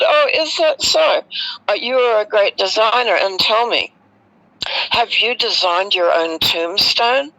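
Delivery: high, teasing retort that stays light; cheeky mock praise. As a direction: tease him with sweet sarcasm. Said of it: "I was being cheeky right back then".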